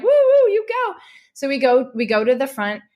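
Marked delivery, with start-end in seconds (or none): 0.0-0.9 high, louder mock cheer from the crowd; imitating cheering crowd. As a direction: cheer her on like the bystanders did. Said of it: "they moved out of the way and like".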